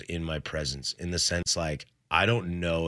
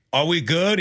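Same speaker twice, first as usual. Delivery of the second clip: Jules voice; 8 semitones higher, 4 dB louder than usual. Retold or imitated. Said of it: "and Jules is like".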